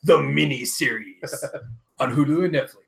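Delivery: dramatic announcer voice. Retold or imitated. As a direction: sell it like an epic promo. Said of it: "Daniel said in dramatic announcer voice".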